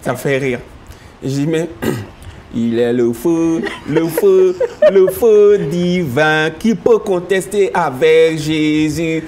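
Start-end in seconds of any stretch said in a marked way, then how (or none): 2.6-9.2 slow, louder sung-speech in a Yakuba accent, "le feu" repeated; Yakuba-accented French. Shown as a demonstration. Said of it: "sinon, en français, on dit".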